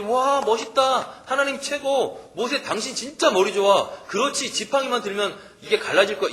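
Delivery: hammed-up fake applause for Moses; mock admiring praise. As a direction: play the fawning crowd with a laugh. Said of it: "이렇게 얘기했겠어요?".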